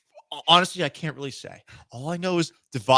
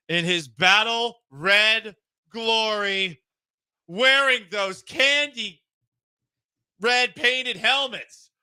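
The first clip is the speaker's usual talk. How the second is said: announcer hype; 7 semitones higher, much slower than usual. Acted. Hyping a new roster move.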